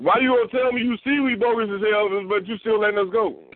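high, incredulous questioning; mock disbelief. Telling the cop he's baffled at being let go, high incredulous. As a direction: sound baffled he got let go. Retelling his reply to the cop.

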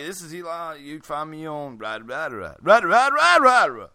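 teasing a friend with mock cartoon gibberish; Eli as Schnitzel. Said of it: "Eli wants to be like".

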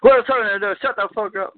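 high, loud angry snap; mock Carl snapping at her; angry retort imitation. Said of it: "and then Carl goes".

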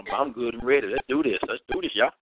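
words around a mouthful of candy; chewing while talking. Real, not acted. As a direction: keep munching while you talk. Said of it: "munching on some Skittles right now".

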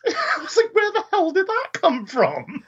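laughing. Real, not acted. Laughing at weird film detail.

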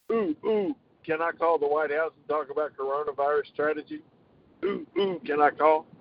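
eager childlike mock voice; wide eyed naive. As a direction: beg like an excited kid with a hand up. Eager Biden mimicry.

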